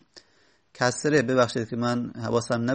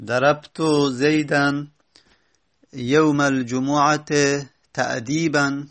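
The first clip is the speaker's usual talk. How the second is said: slow example reading; slower than usual. Shown as a demonstration. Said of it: "مثلاً".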